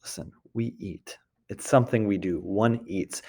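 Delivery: soft, patient voice explaining to a little one; gentle parent to child. Pretend. Parent gently telling a child at the table, softly. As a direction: calmly tell a child how it's done. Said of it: "If you're talking to a child".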